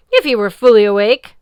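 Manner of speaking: loud, commanding sea goddess voice; imperious goddess. Acted. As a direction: speak down to a mere mortal.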